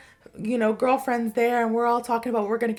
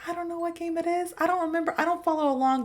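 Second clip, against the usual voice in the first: high, monotone, softer aside; high-pitched comic disclaimer; defensive aside; 6 semitones higher, 4 dB quieter, faster than usual. Real, not acted. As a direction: rattle off excuses up high. Defensive aside about the game.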